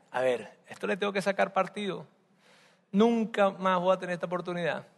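quiet scheming aside; scheming thought. Acted. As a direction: Jacob plotting under his breath, quiet scheming. Jacob scheming to himself.

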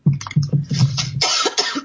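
dry, rough cough; coughing fit. Real, not acted. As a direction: clear the throat with a hard cough. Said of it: "I've been talking so much".

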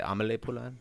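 Amelie as ah-muh-LAY before Poulain; quiet, French-style Amelie Poulain; French film pronunciation. Shown as a demonstration. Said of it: "They say her name".

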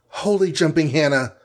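high shocked exclamation; a mock shriek of disbelief. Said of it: "shrieked Hawkeye".

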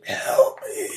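very high, thin wailing plea; a faint high ghost voice; ghostly whisper. Acted. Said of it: "just some sort of whisper".

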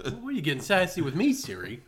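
quick, high comic protest; mock affront. Phone owner scolds a sassy Siri, mock indignant.

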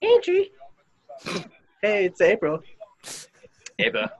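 high, lightly voiced girl names; man doing a woman's voice. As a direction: pitch up into a girly voice. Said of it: "I'll do the girl voices".

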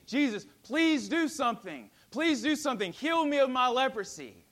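begging and pleading. Acted. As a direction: beg him desperately for healing. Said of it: "begging and pleading".

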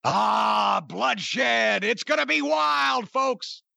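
mock promoter hype, building to a yell; Bob Luce promo voice. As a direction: sell the bloodshed like a carnival barker. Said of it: "Except I wasn't yelling quite as loud".

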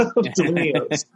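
Dominios said as "Do-MIN-ee-os", slow with a laugh; laughing, stretch out "Dominios" with an extra "ee" sound; mispronounced Dominios. Retold or imitated. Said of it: "he called it Dominios".

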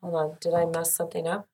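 distant, echoey mic sound; big hall echo. Real, not acted. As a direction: voice far off in a big room. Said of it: "She just sounds far away over here".

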